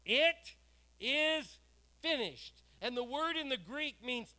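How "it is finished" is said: loud ringing proclamation; loud cry. Retold or imitated. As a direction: cry it out slowly, word by word. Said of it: "he cried out in a loud voice".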